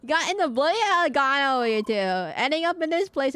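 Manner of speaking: bad British accent. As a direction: fumble through a mock British accent. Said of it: "I can't do a British accent".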